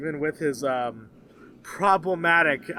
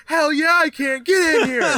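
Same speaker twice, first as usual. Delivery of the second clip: raised, higher-pitched hearty yes; eager welcome; 7 semitones higher, 4 dB louder than usual. Retold or imitated. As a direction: imitate a stranger thrilled to be asked. Stranger eagerly invites him in.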